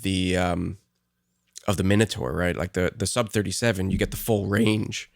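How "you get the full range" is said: voice cracking. Real, not acted. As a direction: voice cracks mid-phrase. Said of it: "my voice cracked".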